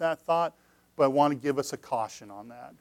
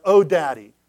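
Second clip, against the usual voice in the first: mock childish prayer; 8 dB louder than usual. Shown as a demonstration. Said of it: "I would not expect any of us".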